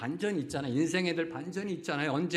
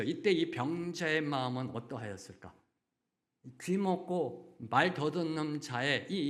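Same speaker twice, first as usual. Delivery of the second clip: usual speaking voice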